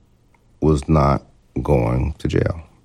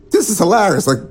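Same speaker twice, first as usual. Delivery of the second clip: much higher, loud, laughing incredulous voice; a friend laughing, sure the shot was nothing, much higher and louder; laughing disbelief; 4 dB louder, faster than usual. Retold or imitated. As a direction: retell it like you couldn't stop laughing at the absurdity. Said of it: "I can remember laughing".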